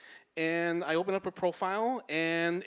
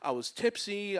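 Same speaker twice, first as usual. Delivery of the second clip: higher-pitched, retold pleading; pleading apology; 4 semitones higher than usual. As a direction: plead your excuse, mildly flustered.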